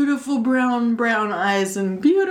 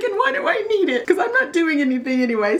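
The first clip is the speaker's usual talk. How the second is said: laughing self-mockery; 6 semitones higher, faster than usual. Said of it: "And I'm like".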